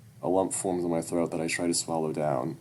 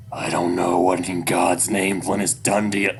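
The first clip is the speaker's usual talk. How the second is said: bitter anger; 8 dB louder than usual. Acted. Dad angry at son.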